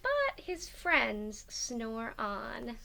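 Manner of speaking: lively storybook narration; reading to children. A narrator's reading. Teacher reading a picture book aloud. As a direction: read it out to the class with bounce.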